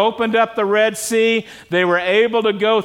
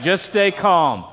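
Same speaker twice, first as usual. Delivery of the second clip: slow, gentle repeat; slow, calm echo of the phrase; slower than usual. Shown as a demonstration. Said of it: "these amazing three words".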